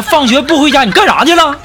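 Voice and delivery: high-pitched parental telling-off; mock scolding. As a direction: imitate a father demanding an explanation. Father scolding child in retold story.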